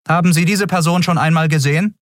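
fast, high, official questioning; brisk question. Acted. The officer asking about the wanted man, fast and high. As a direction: rattle off a routine question.

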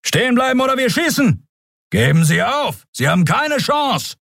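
guard shouting orders. Acted. White-coat guards yelling at the fleeing pair to stop. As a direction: bark the halt order.

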